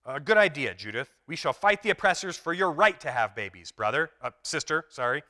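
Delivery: rally the group, lightly acted; a hint of a comic revolutionary; rousing comrade. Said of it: "character responds".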